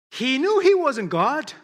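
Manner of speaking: emphatic preaching. Real, not acted. Preaching the liar option.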